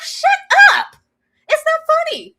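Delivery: high, loud shut up through laughter; laughing mock scold. Host telling herself off, laughing mock scold. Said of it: "It's like".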